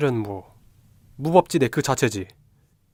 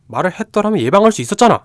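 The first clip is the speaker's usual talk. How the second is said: loud, higher reproachful outburst; angry reproach; 8 semitones higher, 6 dB louder than usual. Acted. Younger brother blaming his sister, angry shout. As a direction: snap the blame at her, voice rising.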